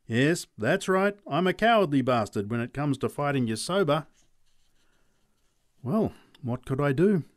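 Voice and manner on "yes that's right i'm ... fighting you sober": cheeky admission. Acted. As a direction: own it with a grin. Charlie admits cowardice.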